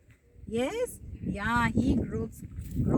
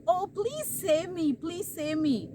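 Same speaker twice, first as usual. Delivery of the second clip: pleading crane; 4 semitones higher than usual. Retold or imitated. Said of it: "only the crane is pleading".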